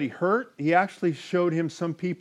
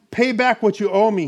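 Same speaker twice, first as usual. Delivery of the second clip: raised, insistent demand; 4 semitones higher, 5 dB louder than usual. A narrator's reading. Servant choking his debtor for money, demanding. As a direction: read it as a mild demand. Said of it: "he demanded".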